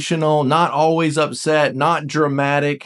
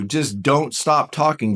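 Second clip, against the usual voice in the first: usual speaking voice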